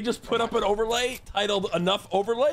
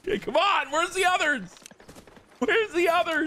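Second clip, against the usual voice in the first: high-pitched, hyped calling out; excited demand; 9 semitones higher than usual. Real, not acted. Streamer calls for the other overlays, high excited demand. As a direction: demand them in a high raised voice.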